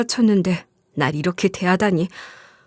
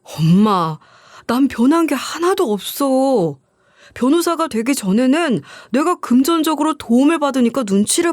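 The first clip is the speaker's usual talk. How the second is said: exasperated son; 2 semitones higher than usual. Retold or imitated. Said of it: "답답하다는 듯이 저에게 이러는 거 있죠".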